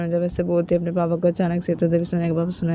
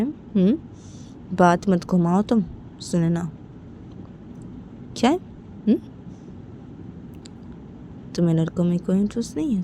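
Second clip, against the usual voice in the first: stern father; 2 semitones higher than usual. Acted. Father sternly questions daughter about Simran.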